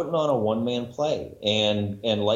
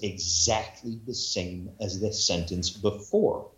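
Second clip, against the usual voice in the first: drawn-out complaint; slower than usual. Retold or imitated. Mimics monotonous reader, drawn out.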